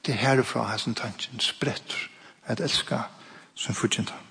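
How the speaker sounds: hushed, breathy whisper to the hall. Real, not acted. Preacher to congregation, whispering the key thought. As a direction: lean in and whisper the point.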